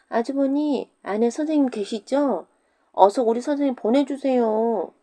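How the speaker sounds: put-on high child voice calling out; calling children. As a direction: call through the door like cheeky kids. Pupils calling again. (과부 집 앞에서 부르는 아이들 목소리)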